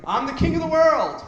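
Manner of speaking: high shouted mock Titanic cry; Leonardo quote. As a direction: bellow it from the bow of a ship. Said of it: "what's the Leonardo thing?".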